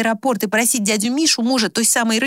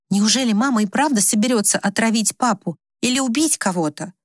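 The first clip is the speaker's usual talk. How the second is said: ordinary delivery, nothing marked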